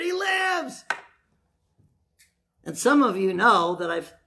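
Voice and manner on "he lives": retold shout. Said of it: "I was crying and screaming".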